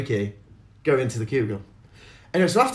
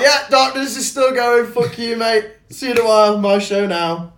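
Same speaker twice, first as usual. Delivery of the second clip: gloating taunt; 9 semitones higher, 5 dB louder than usual. Retold or imitated. Taunting the comedian on stage.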